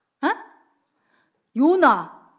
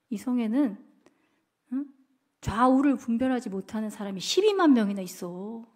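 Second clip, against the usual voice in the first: God's voice. Retold or imitated. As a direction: speak as a gentle, patient God. God answering Jonah.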